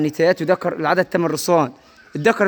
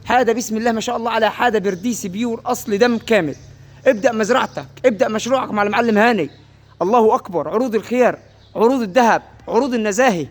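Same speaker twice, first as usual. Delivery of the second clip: raised, excited market sales pitch; arabic street vendor cry; 3 semitones higher than usual. Acted. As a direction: call it out like a livestock seller hyping a bargain. Livestock seller hypes price, calls out. (نداء بائع في السوق بحماس)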